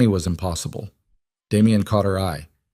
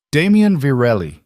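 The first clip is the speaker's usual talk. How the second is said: put-on a thick Russian accent, cold and raised; 6 semitones higher, 4 dB louder than usual. A narrator's reading. Russian-accented gangster calling a name out, cold. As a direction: Kozlov greets Damien at the door, in a thick cold Russian accent. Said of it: "Kozlov's accent was thick, Russian, cold".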